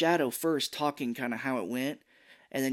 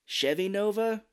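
higher, questioning; puzzled turtle; 8 semitones higher, slower than usual. Retold or imitated. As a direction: ask it like a confused teen. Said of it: "he's like".

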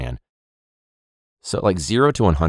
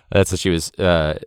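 ordinary delivery

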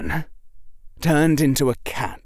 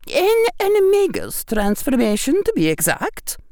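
higher, matter-of-fact teacher; calm witch voice; 3 dB louder than usual. A narrator's reading. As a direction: explain it drily. McGonagall calmly explains.

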